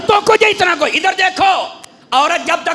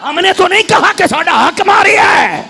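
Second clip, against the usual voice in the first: called out louder as the preacher demanded; louder, with force; 3 semitones higher than usual. Shown as a demonstration. Preacher urges the gathering to shout it louder, loud call. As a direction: say it louder and stronger, like young men. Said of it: "آواز کمزوروں والی ہے، آپ حضرات کی".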